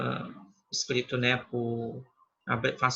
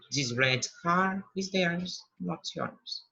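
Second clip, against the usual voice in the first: slow model reading; 2 semitones higher, 3 dB quieter, slower than usual. Shown as a demonstration. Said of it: "Porque ele tá no final da primeira informação".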